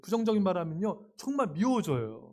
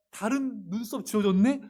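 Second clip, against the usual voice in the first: mock surprise; 2 semitones higher than usual. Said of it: "이런 놀람이면 안 돼요".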